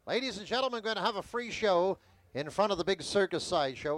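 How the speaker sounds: calls out like a carnival talker; barker call. Shown as a demonstration. Carny talker opening his pitch to an imagined crowd, calling out. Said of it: "I don't have to raise my voice".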